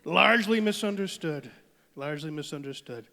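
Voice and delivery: brash rally Trump, boastful and rambling; hammed-up Donald Trump stump speech; Trump impression. Comic plays Trump announcing a border wall, brash rally voice.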